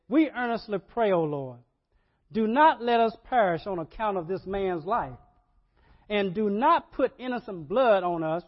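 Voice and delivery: loud, pleading prayer to the Lord; fervent prayer. Acted. Sailors praying in the storm, loud and pleading. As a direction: cry out to God for mercy.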